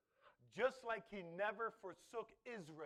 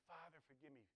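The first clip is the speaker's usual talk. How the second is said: humble prayer. Pretend. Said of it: "I should be".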